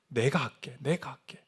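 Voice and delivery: low, soft promise; quiet reassurance. Acted. Preacher voicing God's promise to the believer, softly reassuring. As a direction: drop right down and reassure gently.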